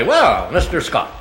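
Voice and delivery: mock producer, slowly drawn-out greeting; imitated producer. Producer greets the typecast actor, imitated slow drawn-out greeting. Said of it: "the producer would say".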